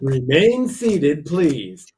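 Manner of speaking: slow, loud announcer call; train station announcement. Retold or imitated. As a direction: call it over the intercom.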